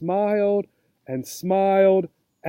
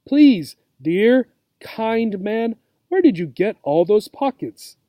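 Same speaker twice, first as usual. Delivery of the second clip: sweetly pleading; 2 semitones higher than usual. Acted. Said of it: "Katy looked at him with her soft brown eyes and said".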